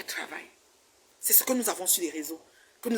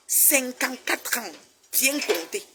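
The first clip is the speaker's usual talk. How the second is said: "Cinquante-quatre ans" stretched out slowly, word by word; emphatic counting; 3 semitones higher, much slower than usual. Real, not acted. Telling critics her exact age, slow emphatic "Cinquante-quatre ans".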